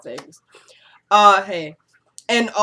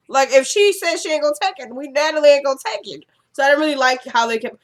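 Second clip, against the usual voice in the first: heated viewer rant; worked-up indignation; 6 semitones higher, faster than usual. Real, not acted. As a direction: fire it off, fed up with them. Indignant rant about the show.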